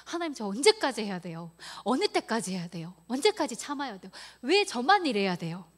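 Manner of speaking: acted-out complaint to heaven, growing forceful; crying out. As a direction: plead with God in mounting protest. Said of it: "막 부르짖습니다".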